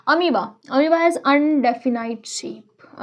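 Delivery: slow dictating pace, each word spaced out; slow dictation. Shown as a demonstration. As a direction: dictate it slowly for notes. Teacher dictating notes slowly.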